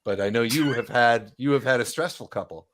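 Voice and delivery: a hint of a friendly boss checking in; brisk merchant woman. Lenine welcomes the adventurers back, brisk and friendly, lightly voiced.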